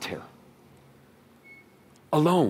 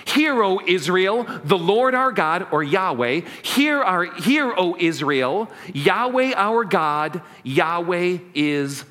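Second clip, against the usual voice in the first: slow, raised solemn recitation; solemn proclamation; slower than usual. Shown as a demonstration. Pastor proclaiming the Shema to the congregation, solemn. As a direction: proclaim it like a sacred creed. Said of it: "Let me say it in English first".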